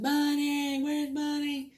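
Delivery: put-on high, loud little-girl cry for Bunny; child calling for her godmother, high and loud; scared child calling. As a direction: call out like a lost, frightened four-year-old.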